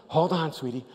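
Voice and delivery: soft, calm reassuring; steady her gently before the drop; gentle reassurance. Retold or imitated. Father to his daughter before the drop, soft reassuring voice.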